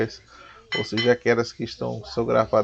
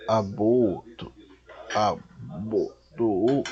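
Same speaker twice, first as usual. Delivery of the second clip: "abotou" drawn out in separate syllables; halting, stretched-out "abotou"; sounding out slowly; much slower than usual. Real, not acted. Sounding out a difficult word.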